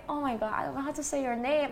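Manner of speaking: flustered aside. Retold or imitated. Host who cannot say the guest's name, flustered aside. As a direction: rush it out under your breath. Retold reply, sotto voce panic.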